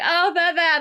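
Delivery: high, loud flustered mum. Retold or imitated. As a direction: squeak it like the flustered mother. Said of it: "She's like".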